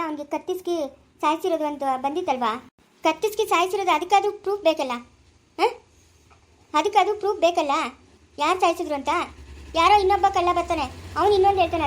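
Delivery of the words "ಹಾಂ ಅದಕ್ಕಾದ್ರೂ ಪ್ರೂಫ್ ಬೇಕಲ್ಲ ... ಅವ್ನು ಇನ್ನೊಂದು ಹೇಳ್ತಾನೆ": loud, raised scornful jab; heated scorn. Acted. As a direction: dismiss the witness with force. Lawyer mocks the witness's word.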